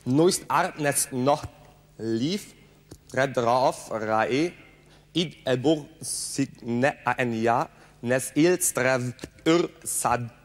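sentence spoken sound by sound in reverse; backwards speech. Shown as a demonstration. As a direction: reverse the whole sentence fluently. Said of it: "Sie können sich fließend mit Menschen rückwärts unterhalten".

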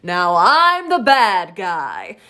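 slow theatrical villain; Mother Gothel voice. Retold or imitated. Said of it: "I'm Mother Gothel".

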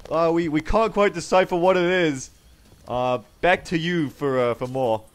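mock baffled live reporter; projected news-report voice. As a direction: hand back to the studio. Mock reporter hands back.

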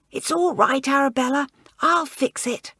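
soothing whisper. Acted. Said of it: "whispered Elizabeth".

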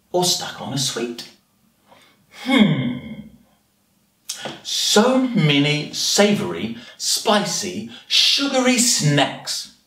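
anteater relishing each word, with pauses; children's story narration. Acted. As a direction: read it to little ones, savouring the menu. Reads picture story as the anteater.

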